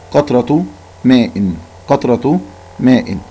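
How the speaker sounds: each word slow and spaced; slow read for pupils. Shown as a demonstration. Teacher reading the title slowly for the class. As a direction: read slowly so children follow. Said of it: "نقرأ مرة أخرى".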